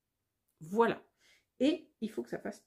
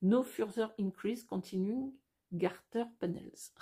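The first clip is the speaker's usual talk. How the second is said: English read with French accent. Real, not acted. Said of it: "mon accent est vraiment très mauvais".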